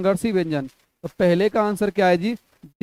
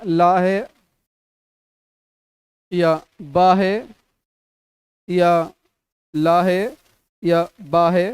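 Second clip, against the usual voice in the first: emphatic options; 3 dB louder, slower than usual. Shown as a demonstration. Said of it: "teacher sounding options aloud".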